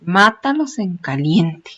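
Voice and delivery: slow, deliberate order; firm order. Retold or imitated. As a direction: state the order plainly and firmly. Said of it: "la orden fue clara, concisa y precisa". (orden firme y lenta)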